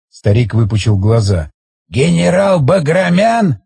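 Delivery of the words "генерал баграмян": slow, drawn-out amazement; old man's stunned question; astonished. Acted. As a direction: stretch the question out in disbelief. Old man astonished at the name.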